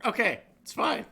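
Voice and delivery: laughing it off; shaky relieved laughter; laughing relief. Real, not acted. Laughing after panic.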